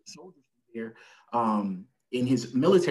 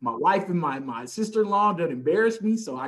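father telling the doctor; 6 semitones higher, 4 dB louder than usual. Retold or imitated. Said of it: "tells the doctor".

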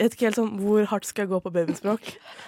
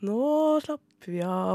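put-on calm baby talk; 4 semitones higher, much slower than usual. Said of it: "snakker veldig sånn tydelig og avslappet".

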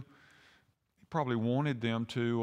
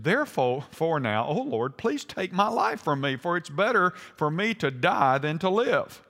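scripture reading; 3 semitones higher, 3 dB louder than usual. Acted. Jonah begging the Lord to take his life, declaimed scripture reading. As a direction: build the prayer into an emphatic plea. Reads Jonah's prayer aloud.

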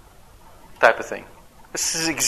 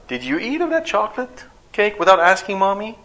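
gentle parent question; 6 semitones higher than usual. Retold or imitated. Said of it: "Talking to my daughter".

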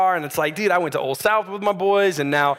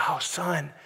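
mock gentle. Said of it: "I want my character to be like".

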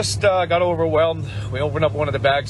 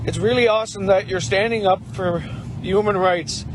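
real emotion held back, voice raised and tight while reading the note; getting emotional; 4 semitones higher than usual. Real, not acted. Volunteer reads a kid's note to truckers, choked up. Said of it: "Sorry, I'm getting emotional again".

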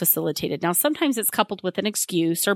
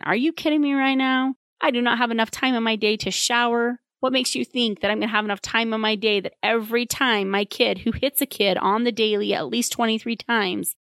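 exasperated parent; 4 semitones higher than usual. Retold or imitated. Tired parent rants at the therapist, exasperated. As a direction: vent like a swamped parent. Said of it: "And you're thinking".

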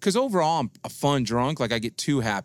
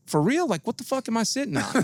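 put-on drunk surprise; 10 semitones higher than usual. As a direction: blurt it out, caught off guard. Drunk self realizing no legs.

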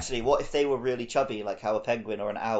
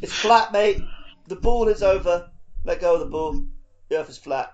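mock flat earther; 4 semitones higher, 6 dB louder than usual. Mocking flat earther catchphrase.

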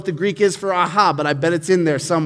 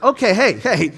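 louder, higher teasing friend; kid teasing; 3 semitones higher, 4 dB louder than usual. Retold or imitated. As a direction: poke fun at the embarrassed buddy. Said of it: "one kid tells another kid".

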